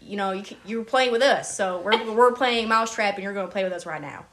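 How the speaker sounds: put-on putting on a folksy country accent. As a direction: imitate playful country-accent banter. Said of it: "walk around and talk in a country accent".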